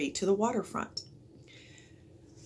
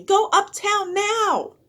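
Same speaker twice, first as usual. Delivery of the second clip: higher, louder, slow yelled order; 8 dB louder, slower than usual. A narrator's reading. Annie ordering the crowd uptown, a slow loud yell. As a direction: push them away with it. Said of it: "yelled Annie".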